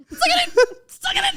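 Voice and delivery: laughing. Real, not acted. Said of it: "holding back screaming".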